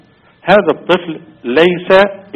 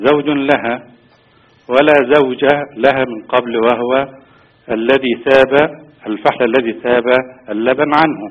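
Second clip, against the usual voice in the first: over the phone; 3 semitones lower than usual. Real, not acted. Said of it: "ترفع صوتك لو تكرمت وتسمعنا من الهاتف".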